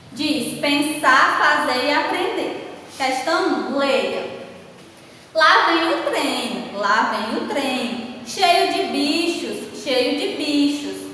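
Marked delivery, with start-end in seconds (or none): 5.3-11.1 slow, deliberate classroom read-aloud; measured, sing-song textbook reading; expressive reading aloud. Shown as a demonstration. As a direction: read each phrase out slowly for the children. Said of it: "observaram aí na entonação que eu dei ao ler cada frase".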